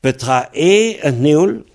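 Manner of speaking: Petra et neol? asked slowly, rising on et; question tune. Shown as a demonstration. Teacher quizzes the student in Breton with a rising question. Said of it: "si je pose la question".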